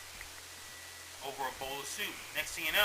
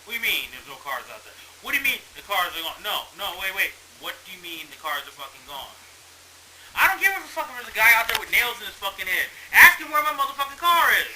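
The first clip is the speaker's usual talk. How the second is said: builds from a hissed disbelief into a loud furious yell; working yourself up over the stolen car; indignant rant; 3 semitones higher, 5 dB louder than usual. Pretend. To the movie's rich people, a rant building into a yell. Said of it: "I will go".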